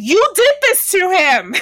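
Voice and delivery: loud, high accusing cry; you did this to HIM; mock accusation.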